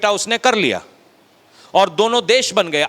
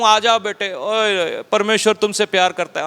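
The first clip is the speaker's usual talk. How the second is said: mock sweet church call. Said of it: "अगर मैं church को कहूं".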